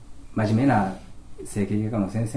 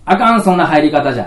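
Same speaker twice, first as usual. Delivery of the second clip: put-on higher, much louder bossy child; child scolding the principal for entering wrong; 6 semitones higher, 15 dB louder than usual.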